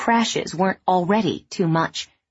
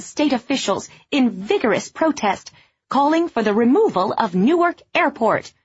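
shouting into a bullhorn; 6 semitones higher than usual. A narrator's reading. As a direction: announce it through a megaphone. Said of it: "she shouted into a bullhorn".

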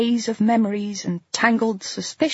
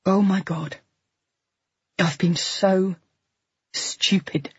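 whisper. A narrator's reading. Narrator's self-reproach.

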